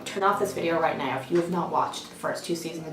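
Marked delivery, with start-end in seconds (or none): 0.1-1.2 mock stern. Mock-stern order to viewers.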